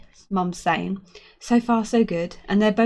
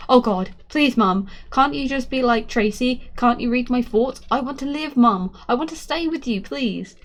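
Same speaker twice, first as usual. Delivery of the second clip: higher, begging to be allowed to live; a boy's raised, urgent plea; desperate pleading; 4 semitones higher than usual. Acted. Boy begs to live.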